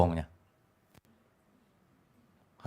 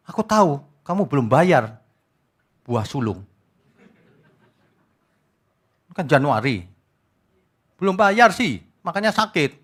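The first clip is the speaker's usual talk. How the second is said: mock preacher. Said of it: "Kemarin ada yang kirimin saya begini".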